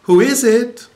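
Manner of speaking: shrill it out like a bird; parrot calling out. A narrator's reading. Parrot calling out to the plumber a third time, loud squawk. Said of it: "the parrot called out".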